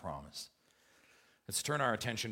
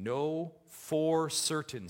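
Know for certain said slowly, each word weighted; emphatic; 3 semitones higher, much slower than usual. Shown as a demonstration. Preacher reading Genesis promise, slow and emphatic. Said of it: "same emphasis".

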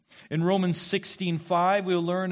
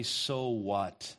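mock shrug; 6 semitones lower, 4 dB quieter than usual. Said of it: "we would have rights to say".

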